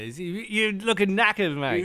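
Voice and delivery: put-on light Cockney accent. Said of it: "back to our Cockney thing".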